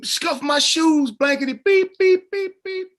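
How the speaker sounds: high, loud mock rant with cartoon bleeps; imitated angry rant. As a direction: go off like an offended hothead, bleeping the swear words. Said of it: "He kinda went off".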